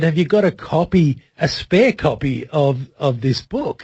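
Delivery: normal talking voice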